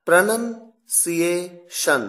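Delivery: Pronunciation said slowly and clearly, every syllable drawn out; slow English word. Shown as a demonstration. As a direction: spell out Pronunciation for learners. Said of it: "इसका मतलब होता है उच्चारण".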